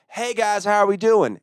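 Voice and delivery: high-pitched hello to the crowd; stage greeting. Retold or imitated. Comic greeting the audience as his set starts, high stage greeting. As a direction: call out a showy comic's opener.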